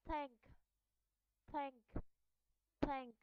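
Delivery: "thank" starting with a voiceless TH; unvoiced TH. Shown as a demonstration. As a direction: drill "thank" word by word, TH as air. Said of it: "will be pronounced as unvoiced sound".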